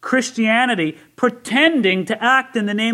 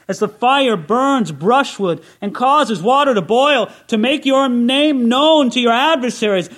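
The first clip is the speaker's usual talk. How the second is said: raised, ringing scripture read to the congregation; preached scripture reading; 4 semitones higher, 4 dB louder than usual. Acted. Preacher to his congregation, reading Isaiah with full force. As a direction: proclaim the prophet's prayer with full force. Reads scripture as a fervent prayer.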